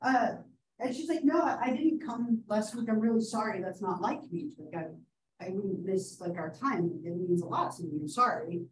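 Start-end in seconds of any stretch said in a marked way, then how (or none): 1.2-8.6 softly voiced meek apology; timid and apologetic. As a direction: shrink into a quiet, timid apology. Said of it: "back to quiet and shy and timid".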